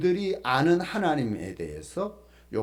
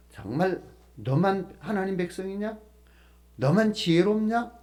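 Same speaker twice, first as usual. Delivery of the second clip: mildly scoffing questions, pitched up; sarcastic; 4 semitones higher than usual. Acted. Job retorts to his scornful friends, sarcastic. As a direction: ask it with a touch of sarcasm. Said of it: "비꼬는 형식이죠".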